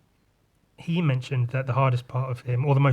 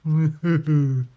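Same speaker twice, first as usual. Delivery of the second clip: jokey chuckle; 3 semitones higher, 6 dB louder than usual. Pretend. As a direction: chuckle at your own joke. Jokey chuckle after meme.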